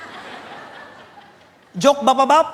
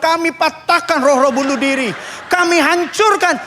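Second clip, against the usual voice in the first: mock warfare prayer. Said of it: "tiap malam dia bilang".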